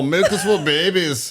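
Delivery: put-on lightly done Austrian accent; a hint of Arnold's Austrian vowels; Arnold Schwarzenegger. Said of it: "Arnold impersonation".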